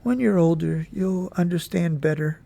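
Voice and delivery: mother gently comforting her grieving son; gentle voice. Acted. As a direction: ease the words to him kindly. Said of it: "Then in a gentle voice she said".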